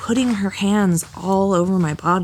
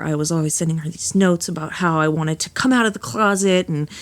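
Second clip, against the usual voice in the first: ordinary talk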